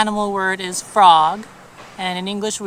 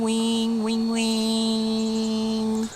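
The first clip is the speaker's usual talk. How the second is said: buzzing wing sound; much slower than usual. Shown as a demonstration. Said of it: "or wing".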